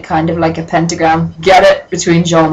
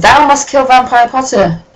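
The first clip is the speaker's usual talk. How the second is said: lightly declaimed mock-theatrical decree; a hint of ham Shakespearean villain; 4 semitones higher than usual.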